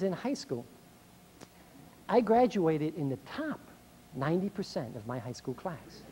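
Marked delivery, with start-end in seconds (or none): 6.2-6.1 laughing. Real, not acted. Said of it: "laughs at own joke".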